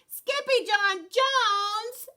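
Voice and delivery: high, slow exclaimed name; shocked cry. Acted. Family shocked at the exploding closet, crying out. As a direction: cry his name in surprise. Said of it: "everyone cried".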